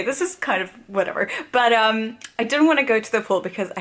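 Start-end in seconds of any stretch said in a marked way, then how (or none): none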